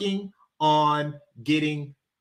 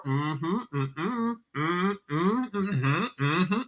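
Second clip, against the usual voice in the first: wordless hums imitating Southern chatter; mock Southern moaning; 3 semitones higher, 4 dB quieter, much slower than usual. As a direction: hum back and forth, mocking Southern women. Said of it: "a bunch of moans back and forth".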